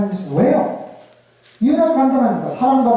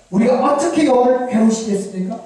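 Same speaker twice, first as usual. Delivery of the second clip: higher-pitched, protesting question; defiant retort; 4 semitones higher than usual. Acted. Israel answering God back, higher and mildly defiant. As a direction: push back against the charge, mildly indignant. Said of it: "대들어요".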